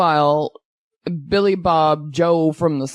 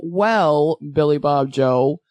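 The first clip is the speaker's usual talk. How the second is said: lower, drawling put-on accent; 4 semitones lower, slower than usual. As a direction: say the name in a silly put-on accent. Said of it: "What is with that accent?".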